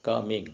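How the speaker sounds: "coming" split into two units, co... ming; syllable breaks. Shown as a demonstration. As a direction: say "coming" with a little stop between the syllables. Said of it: "ഇടയ്ക്ക് പോസ്".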